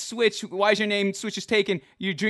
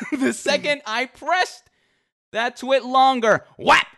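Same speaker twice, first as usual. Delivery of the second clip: laughing while telling; 5 semitones higher, 3 dB louder than usual. Real, not acted.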